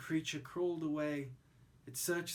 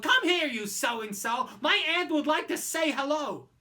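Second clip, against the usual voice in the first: loud, higher bossy yell; Roy yelling; 8 semitones higher, 9 dB louder than usual. Acted. Roy calling the anteater over to meet his aunt, loud. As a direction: summon the creature rudely. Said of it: "Roy yelled".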